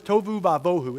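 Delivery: tohu vavohu said as TOH-hoo vah-VOH-hoo; Hebrew word. Shown as a demonstration. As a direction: sound out tohu vavohu carefully. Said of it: "It's pronounced differently by different people".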